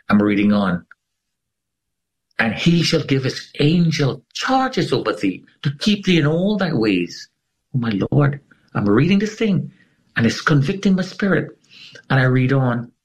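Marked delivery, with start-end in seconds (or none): 2.4-12.9 scripture read with rising awe; awed excitement. Retold or imitated. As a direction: pitch climbing higher as the awe builds. Overwhelmed reading scripture aloud.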